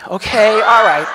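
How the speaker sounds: slow, loud unvoiced whisper; loud stage whisper. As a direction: whisper it so the whole room hears.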